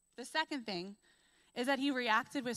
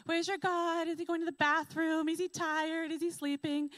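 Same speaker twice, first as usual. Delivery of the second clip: higher, louder jeering questions; mocking taunt; 6 semitones higher, 5 dB louder than usual. Elijah taunting Baal's prophets, mocking and loud. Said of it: "He's making fun of them".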